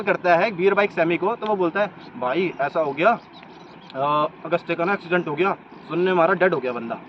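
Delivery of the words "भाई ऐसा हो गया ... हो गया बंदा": casual calm. Retold or imitated. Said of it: "इतने आराम से बोल रहा है".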